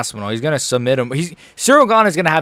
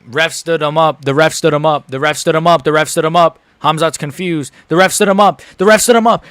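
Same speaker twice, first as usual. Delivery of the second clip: disbelieving repetition; 4 semitones higher, 6 dB louder than usual. Real, not acted. Streamer repeating ref's decision.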